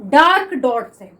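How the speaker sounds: डार्क डॉट से said slowly, weight on डार्क; teacher modelling the answer slowly. Shown as a demonstration. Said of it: "तो हम इसको किससे represent करते हैं?".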